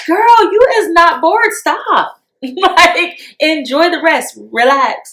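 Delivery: high, scolding pep talk to yourself; sassy self-talk. Retold or imitated. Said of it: "I have to minister to myself, like".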